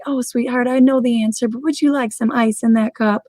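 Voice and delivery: a hint of a kindly old woman, imitated; sweet old lady. Little old lady at Copper Creek kindly offers ice, lightly imitated sweetness. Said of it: "the sweetest little old lady".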